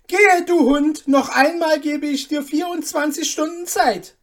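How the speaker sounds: a lord swearing in wounded pride; blazing shout; defiant furious duke. Acted.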